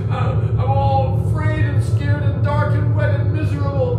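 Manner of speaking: high, loud, panicky wail; loud frightened child's whimpering wail; scared crying child. A narrator's reading. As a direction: cry out like a lost, frightened little girl. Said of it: "Maria began to cry".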